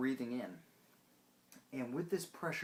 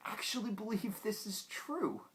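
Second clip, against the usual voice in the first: laughing whisper; 10 semitones higher than usual. Acted. Mocking people's belief.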